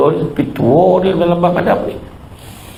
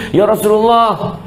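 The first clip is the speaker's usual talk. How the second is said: pleading disciple; 5 semitones higher than usual. Acted. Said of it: "dia kata".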